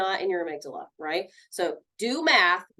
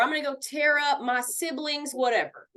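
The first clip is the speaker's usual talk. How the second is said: higher-pitched, hammed-up huff; mock angry threat; 5 semitones higher than usual. Counselor mimics threatening siblings' things, mock angry threat. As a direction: play-act a tantrum threat.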